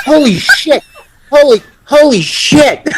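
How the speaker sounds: high, laughing holy shit; laughing at the memory; laughing disbelief. Real, not acted. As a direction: marvel through the laughter. Reacting to his own story.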